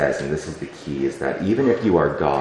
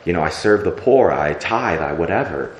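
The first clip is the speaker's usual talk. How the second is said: raised, pleading list of good deeds to God; a bit louder, like bragging to God about serving; self-righteous complaint; 3 dB louder than usual. Retold or imitated. Complaining worshipper voiced to God.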